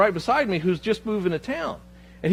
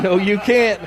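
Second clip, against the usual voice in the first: louder flat refusal; firmer retold no; 4 semitones higher, 7 dB louder, slower than usual. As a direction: say it louder and flatly, a firm no. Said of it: "he basically said".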